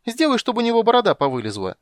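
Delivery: high, loud gleeful call; mock giggling request; laughing kender. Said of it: "засмеялся Кендер".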